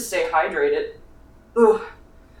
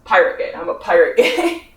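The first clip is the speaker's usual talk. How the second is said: amused answer; 4 dB louder than usual. Retold or imitated. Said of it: "It's like".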